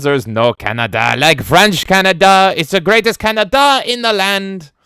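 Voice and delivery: high, loud put-on voice; hammed-up announcer; mock patriotic voice. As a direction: proclaim it grandly. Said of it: "And Black Belt says".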